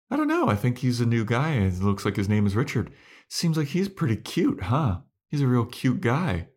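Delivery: put-on high, fluttery girlish voice for Tara; mock Tara. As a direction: pitch way up, teasing and gushing. Tara voiced, much higher.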